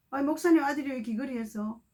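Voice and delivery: lightly voiced nosy churchgoer; a hint of gossipy scolding; mild mock criticism from church members; mock disapproval. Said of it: "이렇게 이상한 소리 할 수".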